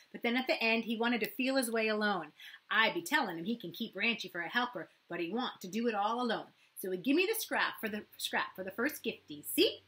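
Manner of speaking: put-on a proud child bragging; excited boy. A narrator's reading. Matt to Kira and Thomas, loud excited child.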